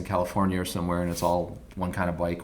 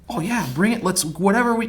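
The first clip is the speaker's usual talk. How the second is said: easygoing Art; 11 semitones higher, 4 dB louder than usual. Retold or imitated. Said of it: "he was just like".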